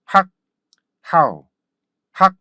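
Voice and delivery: cut-off 학, pause, punchy falling "how"; repeat-after-me drill. Shown as a demonstration. Teacher practises together with learners, short 학 then "how". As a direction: alternate abrupt 학 with gliding "how". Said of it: "다시 같이 해볼까요".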